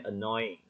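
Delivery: "Annoying" gliding into plain "ing"; no hard Y. Shown as a demonstration. Teacher simplifying the word, "Annoying" with smooth glide. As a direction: slide from "noy" to "ing" in "Annoying". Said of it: "cũng chả phải bật ra là giờ".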